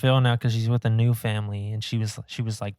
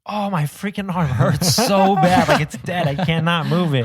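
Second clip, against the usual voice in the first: pained complaint; 6 semitones higher, 6 dB louder than usual. Retold or imitated. Retelling dream pain.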